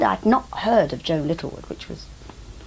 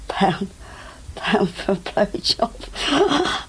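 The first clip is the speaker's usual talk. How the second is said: slowly drawled Cockney come-on, pitched up; hammed-up tart touting for trade; drawn-out street hustler; 3 semitones higher, much slower than usual. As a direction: stretch it out like a hammy streetwalker. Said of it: "I walked up and down saying".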